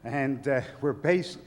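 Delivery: out of breath from running; winded, talking between breaths. Real, not acted. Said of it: "I'm out of breath for running up here".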